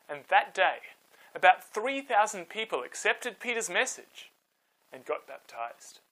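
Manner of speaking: put-on calm storyteller reading to kids; story narration. A narrator's reading. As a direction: tell it gently, like a bedtime Bible story. Reads Bible story to children.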